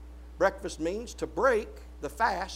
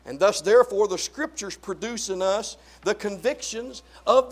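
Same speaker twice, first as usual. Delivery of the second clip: raised pulpit proclamation, punching key words; forceful preaching; 3 semitones higher, 6 dB louder than usual. Real, not acted. Preacher proclaiming freedom from bondage to Satan, forceful preaching. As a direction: proclaim release with emphatic stresses.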